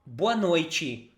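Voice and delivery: boa noite with noite as noitchi; Brazilian boa noite. Shown as a demonstration. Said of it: "we say".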